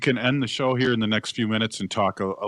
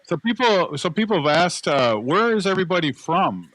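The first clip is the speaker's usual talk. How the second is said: raised, higher voice projecting across the crowd; calling out; 9 semitones higher, 5 dB louder than usual. Real, not acted. Host calls out to the people in the camp, loud and high. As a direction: call out to the whole camp.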